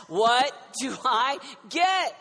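slow and weighty, a question for the crowd; drawn-out question. Shown as a demonstration. Preacher asking slowly what do I get. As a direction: stretch out every word of what do I get. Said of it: "the first question that we would ask".

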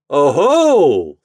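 loud, high crowing oh-ho; laughed. A narrator's reading. Chuck pinning Toad down, laughing triumphantly. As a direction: gloat with a mock laugh in the word. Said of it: "laughed Chuck".

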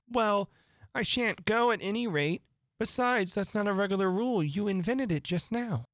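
put-on high girl's voice, objecting; Alice, defiant. A narrator's reading. Alice refuses to leave the court, high and defiant.

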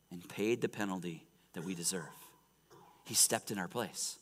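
low, soft, weighted preaching; solemn. Real, not acted. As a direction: remind the congregation quietly and reverently. Solemn gospel recap.

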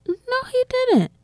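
very high-pitched, incredulous squeal of a voice; mock-shocked reaction in a tiny high voice; acted disbelief. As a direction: squeak out your disbelief, halting between phrases. Retold shocked reaction to hearing song.

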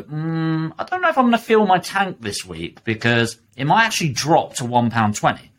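lightly voiced dithering driver; mock dithering. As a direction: weigh it up aloud like a fussy shopper. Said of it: "You don't go".

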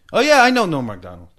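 mock-enthusiastic outburst; eager heckler. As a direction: imitate a drunk guy butting in eagerly. Retelling the heckler's eager reply.

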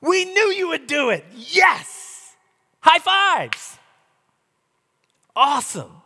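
loud, high, hammed-up cheering; mock triumphant shout at the calm sea. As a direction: celebrate like fans after a win. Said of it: "what was their response?".

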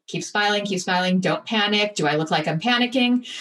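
retold self-coaching through a held smile; masked panic. Newly in charge of Star Wars, mildly masked panic. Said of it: "I stood there just smiling".

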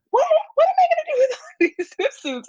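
high, rushed mock bewilderment; mock dismay. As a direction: squeal it quickly through a laugh. Retold dismay at unwanted swimsuits.

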